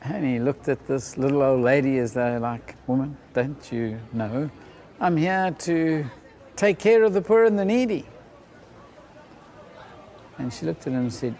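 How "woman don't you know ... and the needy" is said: rising, louder, self-righteous protest; as if it were obvious; indignant young man. Retold or imitated. Young man telling Mother Teresa why he came, indignant and rising.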